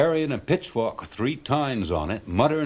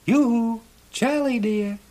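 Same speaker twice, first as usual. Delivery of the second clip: much higher, sing-song coaxing call; pretty mermaid voice; 14 semitones higher, 3 dB louder than usual. A narrator's reading. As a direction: tease him like a flirty little mermaid. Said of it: "a pretty little voice says".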